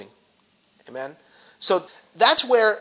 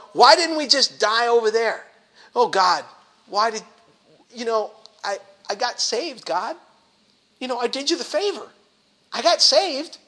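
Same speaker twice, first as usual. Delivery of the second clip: sarcastic whine; 4 semitones higher than usual. Acted. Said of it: "I'm being a little sarcastic".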